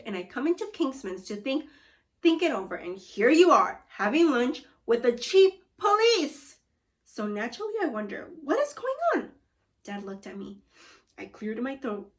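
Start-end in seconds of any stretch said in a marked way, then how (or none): 2.7-9.3 exasperated. Acted. Father confronts sons.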